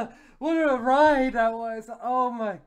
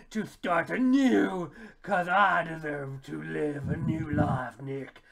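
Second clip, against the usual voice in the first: Fat Albert-like Judy; 3 semitones lower than usual. Acted. Judy rejecting Nick for a new life, hammed-up. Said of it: "She sounds like Fat Albert".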